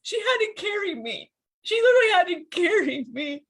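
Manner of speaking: high-pitched distress, falling at the ends; wounded and upset, voice lifted high; anguished admission. Real, not acted. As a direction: confess it in anguish. Anguished about being carried by wife.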